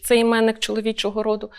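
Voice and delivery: ordinary talk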